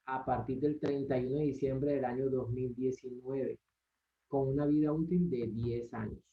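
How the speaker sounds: light costeño accent, reading aloud; coastal Colombian accent. Shown as a demonstration. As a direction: read it with a faint Caribbean Colombian lilt. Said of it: "pero solamente con acento costeño".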